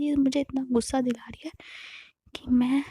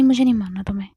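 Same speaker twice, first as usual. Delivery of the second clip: loud blunt refusal; 3 semitones lower, 7 dB louder, much faster than usual. Retold or imitated. Angry refusal.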